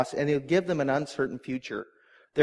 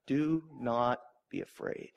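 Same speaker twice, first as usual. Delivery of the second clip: gentle reassurance; 3 semitones lower, 6 dB quieter, slower than usual. Shown as a demonstration. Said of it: "His first words".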